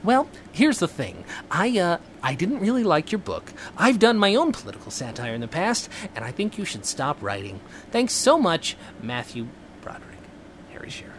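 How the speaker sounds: half-hearted celebrity impression, losing the character; lightly voiced, measured mock letter of rejection; Harry Shearer. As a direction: attempt an impression and let it fall apart, trailing off at the sign-off. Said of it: "this is a real great impression".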